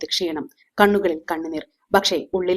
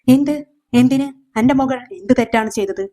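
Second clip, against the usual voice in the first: high, loud stunned cry of disbelief; a father who can't believe his daughter is arrested; sharp shocked questions, higher and louder; 6 semitones higher, 3 dB louder than usual. A narrator's reading. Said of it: "അവളുടെ അച്ഛൻ ഞെട്ടി".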